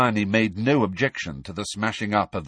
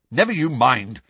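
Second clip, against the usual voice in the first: roughly; 5 semitones higher, 5 dB louder than usual. A narrator's reading. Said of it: "said Harry roughly".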